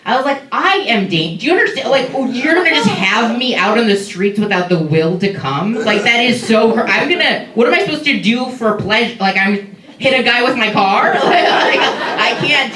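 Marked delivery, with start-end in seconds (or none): 0.5-11.1 higher-pitched, half-joking indignant rant; mock outrage. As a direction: protest as if personally wronged, but keep it playful. Her indignant rant at the doctor.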